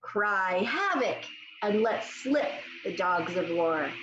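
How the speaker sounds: slow, measured quote read out; slow recitation. Shown as a demonstration. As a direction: read it slowly for young pupils. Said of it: "This one says".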